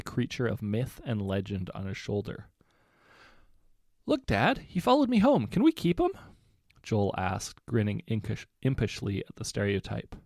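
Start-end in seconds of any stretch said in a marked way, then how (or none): 4.1-6.1 put-on high pleading kid voice; begging teenage son. A narrator's reading. Teenage son begging his dad to keep the phoenix, high. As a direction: beg playfully, rising.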